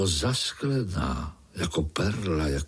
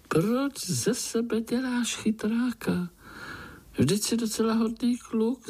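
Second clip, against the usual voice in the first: golden fly; 12 semitones higher than usual. Acted. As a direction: tease him kindly like a wise little fairy. Fly scolds the spider.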